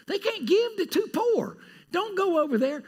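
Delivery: high mock dismissal; mock dismissive church. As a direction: imitate the Corinthians brushing them off.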